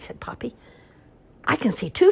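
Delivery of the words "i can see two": shouted. Acted. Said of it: "shouted Hoppy".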